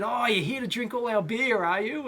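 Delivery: imitated German customs officer; German-accented border guard quizzing a traveller. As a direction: put on a light German accent. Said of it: "so in a German accent".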